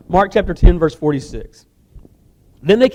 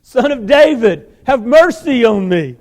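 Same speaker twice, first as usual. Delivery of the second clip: slow, loud plea, higher; shouting louder; 3 semitones higher, 5 dB louder, slower than usual. Acted. Beggar shouting over the rebuking crowd. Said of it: "he shouted all the more".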